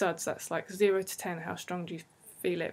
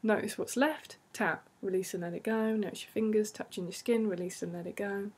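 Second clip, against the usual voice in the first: even, soothing guided voice; guided tapping script. Acted. Therapist guiding listeners through tapping in a soothing voice. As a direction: keep the rhythm calm and steady.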